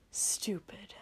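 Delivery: put-on drunken slurred whisper. Tipsy Shoto cursing himself under his breath, slurred whisper. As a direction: mumble it half drunk and breathy. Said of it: "Shoto slurred".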